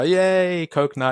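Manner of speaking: high, loud, playful cheer turning the taunt into a joke; mock cheer. A teased kid laughing off a racial taunt, mock cheering. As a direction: sing it out like you're dancing about it. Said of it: "you make a dance about it".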